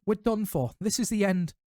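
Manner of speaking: moaning. A narrator's reading. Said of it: "Ron moaned".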